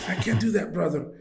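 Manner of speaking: badly imitated Saudi accent; horrible foreign accent. Saudi bank worker refusing to wire money, horrible accent. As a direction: put on a clumsy Saudi accent. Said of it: "I hope I'm my horrible accent".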